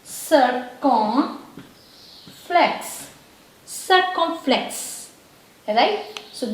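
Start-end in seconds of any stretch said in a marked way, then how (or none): 0.0-1.5 circumflex drawn out slowly in separate pieces; syllable by syllable. Shown as a demonstration. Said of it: "this is called". 3.7-5.1 circumflex slowly but in one piece; joined-up word. Shown as a demonstration. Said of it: "this is called".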